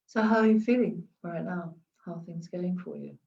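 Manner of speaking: level, settled, gentle asking; calm low voice. Shown as a demonstration. Coach demonstrating a calm question to a client. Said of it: "That's very different from going".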